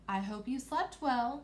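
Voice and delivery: lightly voiced slow storybook queen. Queen greeting the princess at breakfast, lightly regal. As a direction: draw it out a little, like a queen. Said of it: "a queen would sound".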